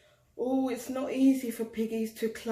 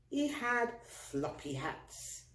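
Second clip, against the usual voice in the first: floppy hats, soft; 3 semitones higher, 8 dB quieter, slower than usual. A narrator's reading.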